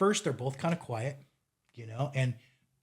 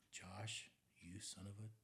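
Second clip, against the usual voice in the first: mock self-scolding; 3 semitones lower, 6 dB louder than usual. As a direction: scold yourself under your breath, half laughing. Scolding himself in retold thought.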